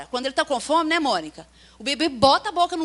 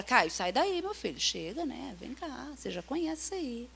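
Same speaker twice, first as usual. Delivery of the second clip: gentle correction; 8 dB quieter than usual. Shown as a demonstration. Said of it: "Você fala".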